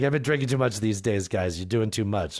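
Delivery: a hint of an imitated mom; second mom imitation. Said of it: "Why did I make her sound like that?".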